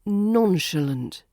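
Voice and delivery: slow NON-shuh-lunt, stress on NON; RP pronunciation. Shown as a demonstration. Teacher modelling RP nonchalant, slowly stressed on the first syllable. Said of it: "R P pronunciation".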